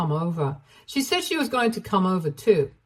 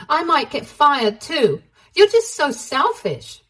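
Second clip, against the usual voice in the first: high, loud accusing rant; rising anger, high and loud; angry; 6 semitones higher, 3 dB louder than usual. Acted. Ashley confronts cheating husband.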